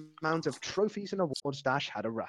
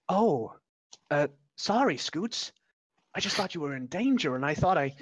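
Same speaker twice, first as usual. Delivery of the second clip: flustered apology; 3 semitones higher than usual. Acted. Dash apologizing.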